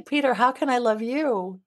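lightly acted, cheerful self-assurance; mock confident partner; self-assured quote. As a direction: play it breezy and sure of yourself, quickening at the end. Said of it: "and then I say".

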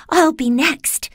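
high, drawn-out worried voice; frightened girl character. A narrator's reading. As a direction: voice a frightened Dorothy, slow and high. Frightened Dorothy thinks aloud.

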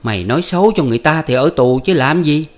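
high, loud bickering voices; husband and wife arguing at night, high and loud; heated quarrel. Acted. Voiced marital quarrel continues.

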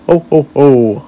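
lightly voiced Santa ho-ho-ho; Santa laugh. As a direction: do a small jolly Santa laugh. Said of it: "I'm good at making Santa laugh".

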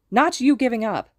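high, loud objection; angry retort. A narrator's reading. Mitsuki refusing to let Hisashi give up, angry retort. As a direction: hammer the objection home. Angry argument about giving up.

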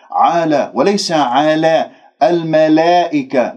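على with an open a and not tilted toward e; no tilting alif. Shown as a demonstration. Teacher contrasts the right and the wrong vowel. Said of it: "لا تمل الألفات".

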